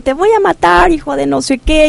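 high-pitched mock yell; retold threat yell. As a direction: imitate the young man screaming a threat. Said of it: "empieza él a gritar".

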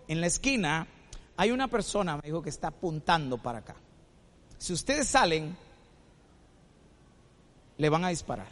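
low-pitched, measured warning with pauses; menacing robber. Retold or imitated. Robber warning shop owner not to follow, low threat.

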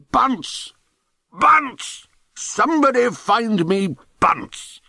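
high, drawn-out bellow down the corridor; thunderous yell. A narrator's reading. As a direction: yell for someone to be fetched. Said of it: "yelled in a voice that thundered like Krakatoa".

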